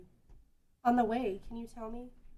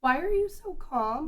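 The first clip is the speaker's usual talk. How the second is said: urgent demand; 5 semitones higher, 16 dB louder, slower than usual. Acted. Dragon attacking, she demands urgency.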